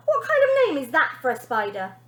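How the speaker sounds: lightly voiced sneering girl. Bonnie voice.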